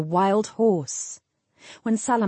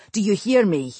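firm, mildly snarled question; snarled warning; 4 dB louder than usual. A narrator's reading. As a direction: press the question home as a warning. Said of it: "he snarled".

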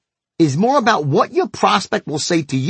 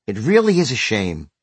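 softened sympathetic voice; 5 semitones lower than usual. Retold or imitated. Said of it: "I softened my voice even more".

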